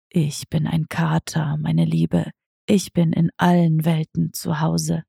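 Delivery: understated secretive cat voice; sly tomcat. Acted. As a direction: purr it like a smug tomcat. Diego voiced lower, hushed.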